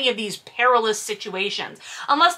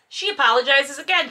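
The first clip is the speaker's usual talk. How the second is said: usual speaking voice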